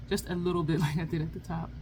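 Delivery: barely moving the lips, laughing; closed mouth talking. Real, not acted. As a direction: talk through still lips. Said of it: "Trying to talk without moving your lips is kinda challenging".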